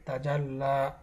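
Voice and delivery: "তা জাল লা" ending in long laa, no y sound; silent ya. Shown as a demonstration. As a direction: hold doubled l in "জাল লা", then open aa. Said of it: "এর কোনো উচ্চারণ এখানে আসবে না". ("তা জাল লা"-র শেষে ইয়া ছাড়া লম্বা আ)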